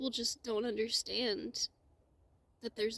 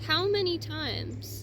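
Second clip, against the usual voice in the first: slow, loud, higher pleading cry; 5 semitones higher, 6 dB louder, slower than usual. Real, not acted. Speaking up for the crying earth, slow loud pleading.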